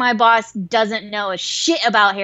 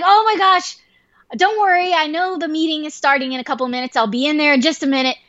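high-pitched, hurried reassurance; mock fluster, pitched up; flustered assurance; 5 semitones higher than usual. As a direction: imitate a frazzled employee promising to be there. Flustered friend sees boss at meeting time.

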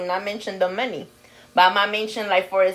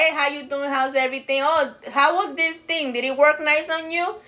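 sweet small talk; 5 semitones higher than usual. Retold or imitated. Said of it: "For me, I'll be like".

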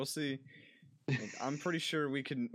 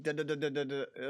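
machine gun sounds; faster than usual. Pretend. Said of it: "They're all gonna be like".

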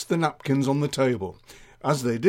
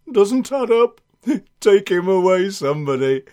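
exasperated sergeant; 6 semitones higher, 7 dB louder than usual. Acted. Sergeant fed up with bad joke.

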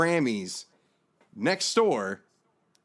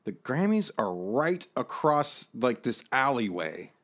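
retold exasperation. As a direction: spell it out word by word, exasperated. Retold exasperation at bored companions.

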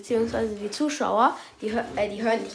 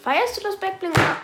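distorted microphone cutting out; glitchy, harsh mic audio; cheap usb mic; 9 semitones higher, 8 dB louder than usual. Real, not acted. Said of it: "Sorry, mein Mikrofon".

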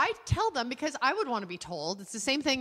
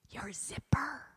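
whisper; 4 semitones higher, 4 dB quieter, slower than usual. Retold or imitated. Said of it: "And I said".

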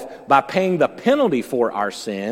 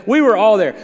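emphatic exclaim; 7 semitones higher, 7 dB louder than usual. Real, not acted. Repeats phrase louder for emphasis.

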